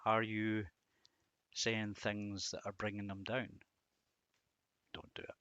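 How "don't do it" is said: high, soft and light warning; hushed plea. Real, not acted. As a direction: plead gently, almost breathless. Gentle warning to the listener.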